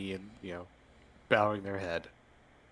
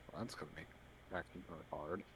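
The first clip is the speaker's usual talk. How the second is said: grumbling; 5 semitones lower, 18 dB quieter than usual. Acted. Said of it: "Richard kinda grumbles a bit".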